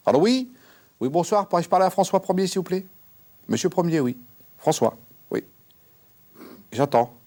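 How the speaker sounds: chatty shouting down the phone; loud phone call. Acted. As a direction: medium shouting cheerfully at François Ier on the phone.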